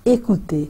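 écouter said whole, falling at the end; joined French word. Shown as a demonstration. Teacher joins the syllables of écouter for students. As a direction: blend the syllables back into écouter. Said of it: "इकट्ठे बोलते हैं तो हम कहेंगे".

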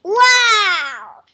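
loud, amazed wow; excited wow. Real, not acted. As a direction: gasp out your amazement at the picture. Child sees giant chessboard picture.

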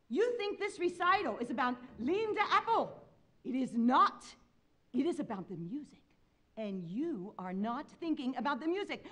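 put-on high, impassioned scolding in a Spanish accent; imitated stern Spanish-accented teacher; Julio Esteban. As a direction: lecture fervently like a Spanish professor. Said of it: "in his impeccable Spanish accent".

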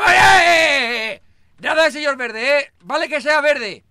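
loud, slow, indignant objection; loud protest. Acted. Refusing the nickname, loud and indignant. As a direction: shout them down before the name sticks. Objects to Señor Verde name.

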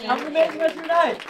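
fast, loud repeat of the goodbye; quick excited farewell. Acted. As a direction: rattle it off cheerfully. Quick repeat of closing line.

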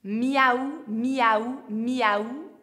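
meowing like a cat; playful cat meow warm-up. Shown as a demonstration. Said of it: "Pour bien réchauffer la bouche".

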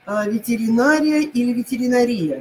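ветеринария first with stress on НА, then with stress on РИ; two stresses contrasted. Shown as a demonstration. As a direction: say both stress variants clearly. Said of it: "Как сказать правильно?". (сначала ветеринАрия, потом ветеринарИя)

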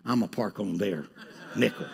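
laughing through the punchline; laughing confession. Real, not acted. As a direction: chuckle while telling it. Laughing at own story.

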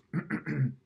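short throat clear before speaking. Acted. Abram clears his throat before answering God, throat clearing. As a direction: clear your throat to get ready. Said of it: "Abram cleared his throat".

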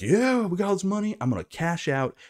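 high-pitched winner's crow; mock elation. Acted quote of poker winner.

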